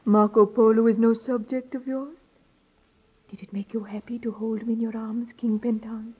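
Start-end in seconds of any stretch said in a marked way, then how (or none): 3.3-6.1 seductive whisper. Acted. Seductive lovers' scene.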